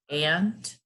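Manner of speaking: Antarctica spaced out beat by beat; counted-out syllables. Shown as a demonstration. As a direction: count out Antarctica with long pauses between syllables. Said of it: "clap it out or count it out".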